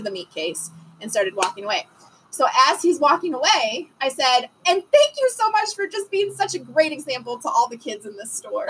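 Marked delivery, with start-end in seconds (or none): 4.7-8.7 saccharine mama voice. Retold or imitated. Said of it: "bless your heart type of mama voice".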